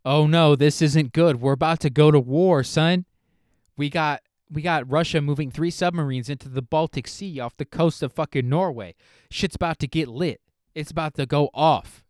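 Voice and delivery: a loud, half-hammed conspiracy guy warning of war; mock alarmed TikTok guy. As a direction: play up his panic for laughs, loud and urgent. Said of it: "he's just like".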